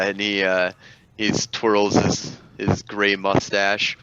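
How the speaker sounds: usual speaking voice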